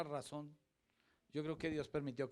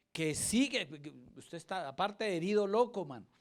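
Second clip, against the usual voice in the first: mock scolding shout; 4 semitones higher, 5 dB louder than usual. Cashier scolding retold, loud.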